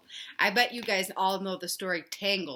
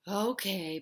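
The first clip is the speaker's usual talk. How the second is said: sighed; 4 dB quieter than usual. Acted. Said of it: "Papa sighed".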